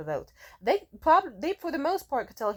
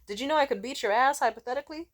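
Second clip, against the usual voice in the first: put-on drunk tough guy; 5 semitones higher, 3 dB louder than usual. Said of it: "men and getting drunk and threatening".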